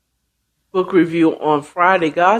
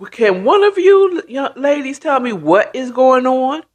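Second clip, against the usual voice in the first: higher-pitched, pointed questioning; demanding mother; 5 semitones higher than usual. Retold or imitated. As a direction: mom pressing two young women for answers. Acted mother demanding an explanation.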